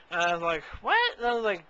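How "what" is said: loud, high-pitched mock disbelief; shocked reaction. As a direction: blurt it out, scandalized. Acts out shock at intimate question.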